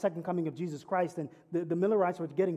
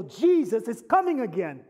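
building crescendo; 3 semitones higher, 7 dB louder than usual. Real, not acted. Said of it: "it's a crescendo".

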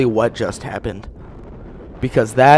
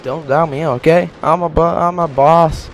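stumbling over a word; stutter; 5 semitones higher than usual. Real, not acted. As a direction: trip on the word boss. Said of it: "I did stutter there for a little bit".

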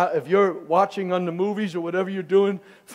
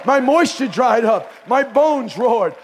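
heavy conviction; 4 semitones higher, slower than usual. Retold or imitated. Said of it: "He said".

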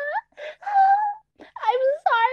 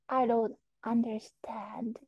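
whispered; 9 semitones lower, 10 dB quieter than usual. Real, not acted. Confused by Twitter Space.

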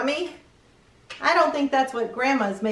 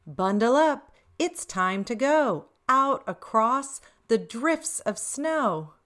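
put-on reading to children; slower than usual. A narrator's reading. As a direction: read the verse gently to little ones. Reads rhyming verse.

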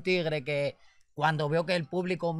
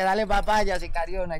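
louder and higher, lively retelling; retold exclamation; 7 semitones higher, 7 dB louder than usual. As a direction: relive the moment with gusto, voice up and loud. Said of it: "pues yo la dije". (relatando con entusiasmo, voz alta y aguda)

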